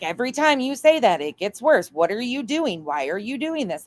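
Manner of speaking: lightly hammed-up exasperated questioning; imitated exasperation. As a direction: imitate a friend pleading in disbelief. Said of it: "She's like".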